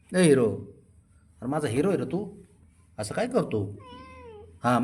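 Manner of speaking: high sweet-talking to a sulking pet; coaxing pet. Acted. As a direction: coax him like a baby. (रुसलेल्या लाडक्याची समजूत काढत, उंच लाडिक आवाज)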